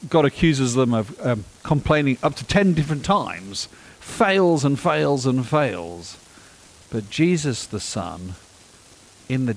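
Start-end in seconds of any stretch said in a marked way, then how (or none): 4.0-6.1 slow emphasis. Real, not acted. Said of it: "repeats for emphasis".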